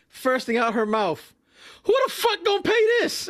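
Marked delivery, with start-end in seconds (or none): 1.8-3.3 very high, laughing outburst; laughing disbelief. Retold or imitated. Imitating the supervisor laughing at the city ticket. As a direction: crack up in disbelief.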